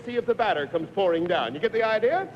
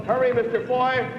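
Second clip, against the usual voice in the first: urgent hurry; 3 semitones higher, 3 dB louder than usual. Real, not acted. Host urging contestant against clock.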